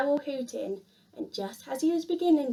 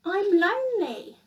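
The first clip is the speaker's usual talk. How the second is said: lonely; 6 semitones higher, 3 dB louder than usual. A narrator's reading. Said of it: "he cried".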